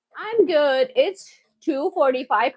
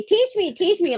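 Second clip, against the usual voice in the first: imitating viewer; 6 semitones higher than usual. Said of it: "You're always telling me".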